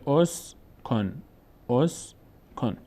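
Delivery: teacher's slow model of اس کن starting on "o"; damma on the first vowel. Shown as a demonstration. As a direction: read اس کن with an opening short "o", syllable by syllable.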